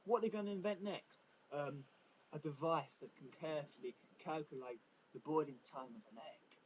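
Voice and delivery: ape the gushing crowd; mocking hype. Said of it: "Everyone's like".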